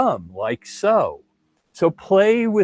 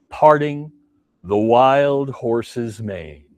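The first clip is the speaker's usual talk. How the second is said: slow drawn-out cue; 3 semitones lower, slower than usual. Shown as a demonstration. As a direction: stretch out the move name. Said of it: "repeated cue, drawn out".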